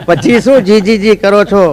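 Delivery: slow line broken by laughter; laughing through the line. Real, not acted. Comedian to audience, laughing at own shayari. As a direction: chuckle as you repeat it.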